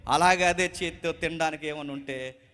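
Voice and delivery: gently asking a widow for water; respectful request. Acted. Elijah politely asking the widow for water, gentle. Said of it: "చాలా గౌరవంగా".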